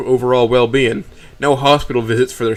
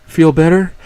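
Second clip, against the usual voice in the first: tender little question; dulcet; 5 semitones higher than usual. A narrator's reading. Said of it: "asks with a dulcet tone".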